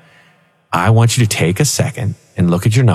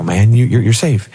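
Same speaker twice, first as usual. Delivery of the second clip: angel voice; 4 semitones higher than usual. Retold or imitated. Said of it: "the angel's on the other side saying".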